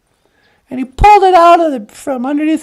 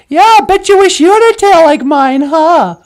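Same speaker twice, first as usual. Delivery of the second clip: louder smug taunt; smug boast; 3 semitones higher, 6 dB louder than usual. Acted. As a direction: rub the crow's nose in it. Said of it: "And Amik says".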